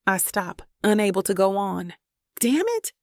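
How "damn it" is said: sudden high cry of frustration; high-pitched burst of self-reproach; frustrated outburst. Acted. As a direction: curse herself on the edge of tears. Fighting back tears, cursing herself.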